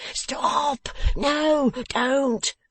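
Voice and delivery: high, urgent protest; alarmed cry. A narrator's reading. Beaten man stopping the dressmaker at the door, alarmed. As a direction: cry out to halt someone at once. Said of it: "cried Fledgeby".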